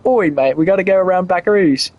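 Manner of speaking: lightly put-on British accent, almost his own voice; a half-hearted British accent, tossed off. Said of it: "I don't think I've ever heard a British person go".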